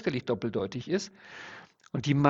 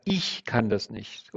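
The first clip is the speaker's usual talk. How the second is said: slow example sentence; 3 semitones lower, much slower than usual. Shown as a demonstration. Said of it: "wenn man sagt".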